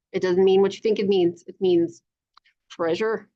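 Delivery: usual speaking voice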